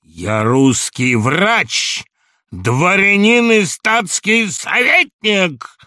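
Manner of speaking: very slow, each word set apart; measured and deliberate. A narrator's reading. Samoylenko asserting his dignity, very slow and deliberate. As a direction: spell out every rank, slow and loud. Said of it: "сказал с расстановкой".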